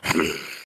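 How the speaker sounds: low throat-clearing grumble; wordless grumble from an unamused dragon; disgruntled grumble. Acted. Unamused dragon overhearing others' chat, grumbling. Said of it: "you hear him just, like".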